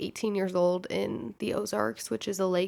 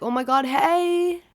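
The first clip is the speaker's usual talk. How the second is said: higher, slowed, gushing hello; mock excited greeting; 6 semitones higher, 4 dB louder, slower than usual. Pretending to know strangers, faking a gushing hello. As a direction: act thrilled to see an old friend. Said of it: "And I was like".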